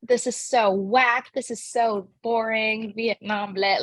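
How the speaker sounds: lightly voiced unimpressed sixteen-year-old; hint of teenage disdain, slowed on the gripes; sassy teenager. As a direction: drag out the complaint like a bored teen. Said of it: "she's a sassy sixteen-year-old character".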